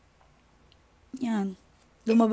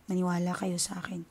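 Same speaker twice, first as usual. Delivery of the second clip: softer, whispered plea; 2 semitones lower, 7 dB quieter than usual. Real, not acted. Vlogger urging viewers to believe her, whispered. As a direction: lean in and whisper it earnestly.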